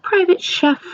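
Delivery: high, sing-song call; calling for her private chef. Pretend. Teacher imagines summoning her chef, calling out high. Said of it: "wake up every morning and say".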